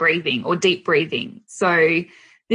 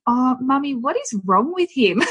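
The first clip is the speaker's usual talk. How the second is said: lightly voiced little boy, higher pitch; a hint of a puzzled child, pitched up; small son; 5 semitones higher than usual. Eldest asks Mummy about his brother's meltdown, lightly voiced child. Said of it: "he said to me".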